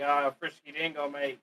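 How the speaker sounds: put-on a light Australian accent, casual; lightly imitating an Australian bloke. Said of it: "if he was Australian".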